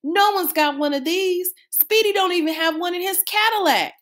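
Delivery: put-on teen forgets to act cool; excited shout. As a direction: lose your cool completely. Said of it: "screamed out".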